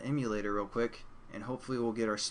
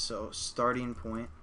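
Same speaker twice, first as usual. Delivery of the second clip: hoarse, tired voice; losing voice; slower than usual. Real, not acted. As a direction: voice giving out. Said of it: "starting to lose my voice".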